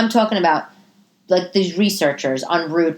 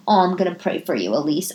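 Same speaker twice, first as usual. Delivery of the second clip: mock pious. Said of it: "in my personal life".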